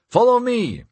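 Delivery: high-pitched acted shout; narrator's contained shout, pitch leaping up; shouted order. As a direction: call it out to a crowd. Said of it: "Cole the Pole shouted".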